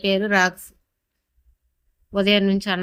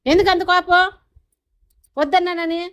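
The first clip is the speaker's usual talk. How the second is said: much higher, louder pet voice; 8 semitones higher, 6 dB louder than usual. Real, not acted. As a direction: coo at the sulking dog. Baby talk to dog. (అలిగిన కుక్కతో పై స్వరంలో ముద్దు మాటలు)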